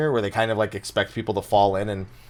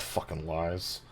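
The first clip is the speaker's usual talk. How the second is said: very soft, low mutter; whispered under breath; 6 semitones lower, 14 dB quieter, slower than usual. Shown as a demonstration. Showing the co-host how to whisper it under the breath. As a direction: drop to a hushed aside. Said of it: "Just whisper it under your breath".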